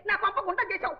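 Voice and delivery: bitter angry rant. Acted. Mother-in-law accusing the son's wife, angry and tearful. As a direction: raise the voice, rushing and half sobbing in the middle.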